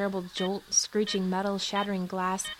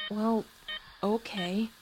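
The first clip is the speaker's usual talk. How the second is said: reluctant; 2 semitones higher, slower than usual. Acted. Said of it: "Obviously reluctant".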